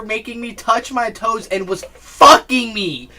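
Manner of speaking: slow, laughing punchline. Real, not acted. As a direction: crack up while telling the joke. Joke told through laughter.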